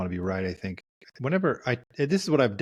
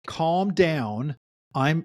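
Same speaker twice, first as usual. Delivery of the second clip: higher-pitched scolding order; mock exasperation; 5 semitones higher, much slower than usual. Therapist voices a partner losing patience, mock exasperated. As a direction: imitate an impatient partner giving orders. Acts the wrong way to respond.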